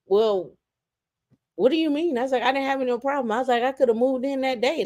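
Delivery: high, light feigned innocence; mock innocent. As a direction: play dumb sweetly, high up.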